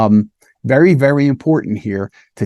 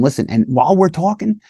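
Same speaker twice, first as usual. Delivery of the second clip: put-on reassuring child; 3 semitones higher than usual. Shown as a demonstration. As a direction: invite the child to correct you. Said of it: "So you tell them".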